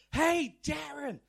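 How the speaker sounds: best attempt at an American park ranger; hammed-up American accent with drawn-out opening call. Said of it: "That's my best American accent".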